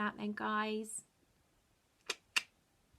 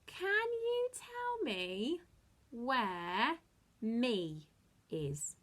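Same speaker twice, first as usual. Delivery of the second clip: playful sing-song; 3 semitones higher, much slower than usual. Shown as a demonstration. Teasing kids with slow high voice.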